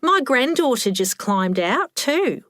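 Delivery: high-voiced old lady chiming in; perked up. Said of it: "Helen perked up".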